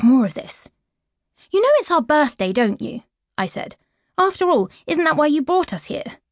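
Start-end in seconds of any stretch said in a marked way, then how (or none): 1.5-6.2 higher, pleading challenge; a girl's pointed question; indignant daughter. Acted. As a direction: confront father on the birthday. Girl confronting father.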